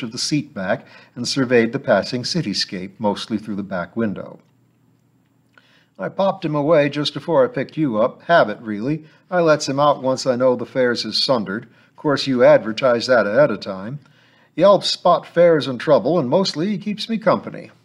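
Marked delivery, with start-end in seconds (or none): 6.0-17.7 a lightly voiced gruff driver chatting; lightly voiced cab driver.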